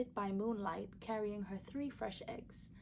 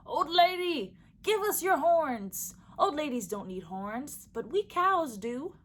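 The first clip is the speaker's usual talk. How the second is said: loud mooing cows; 6 semitones higher, 10 dB louder than usual. Acted. Cows calling loudly to the old lady, mooing. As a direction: boom it out like two big cows. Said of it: "they called out to her with great loud moos".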